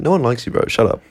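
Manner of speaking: offhand brush-off; quick, casual put-down; dismissive. Shown as a demonstration. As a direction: toss the insult away without weight. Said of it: "just dismissively".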